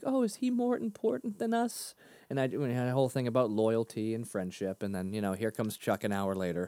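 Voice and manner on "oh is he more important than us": put-on much higher, sulky child voice; imitating his kids. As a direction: play a hurt little kid guilt-tripping dad. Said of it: "They're like".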